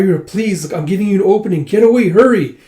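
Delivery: high, fast pressing plea; urgent plea. Acted. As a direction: hurry her out, rising to a shout. Urging rescuer to escape.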